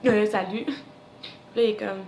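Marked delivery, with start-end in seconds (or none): 0.1-0.7 imitated tongue-tied stammer; fumbling, embarrassed little greeting; awkward stammer. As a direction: stumble into a shy hello. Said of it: "je, je, je bafouille".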